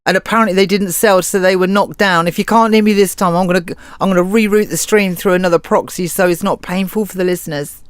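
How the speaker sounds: choppy line, bluetooth cutting out; breaking-up audio, words dropping out. Real, not acted. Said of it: "You're breaking up really badly".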